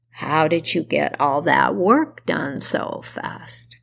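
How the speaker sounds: lightly voiced hag, veiled threat; witch voice. Baba Yaga speaks, then threatens.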